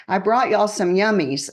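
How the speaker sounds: a touch of sweet Southern accent, imitated. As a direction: lightly mimic a sweet Southern woman. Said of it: "in her sweet little Southern voice".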